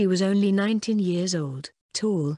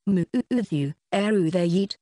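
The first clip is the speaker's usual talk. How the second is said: put-on lisping baby talk; garbled toddler speech; slower than usual. Shown as a demonstration. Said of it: "I would sound like this".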